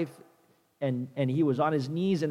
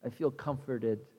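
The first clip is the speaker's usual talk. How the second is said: relieved Jonah; 3 semitones lower, 10 dB quieter than usual. Retold or imitated. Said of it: "He's like".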